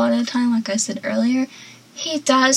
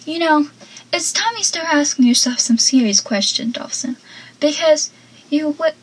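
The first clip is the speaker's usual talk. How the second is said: mildly exasperated, higher-pitched quote; retold annoyance; 3 semitones higher than usual. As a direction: act out a friend fed up with the dithering. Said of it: "he sounds so annoyed saying all of this".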